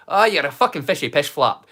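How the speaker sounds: broad, loud Scottish swearing; full Scottish accent. Shown as a demonstration. Streamer shows viewers how swearing sounds in a fully Scottish accent. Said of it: "in a fully Scottish accent".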